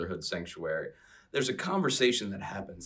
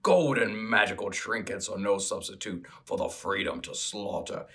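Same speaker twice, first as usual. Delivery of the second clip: lightly voiced orc, rough and blunt. Playing Gogron the orc to his sister, lightly voiced orc scoff. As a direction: play the orc brother scoffing. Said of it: "in my best orc accent".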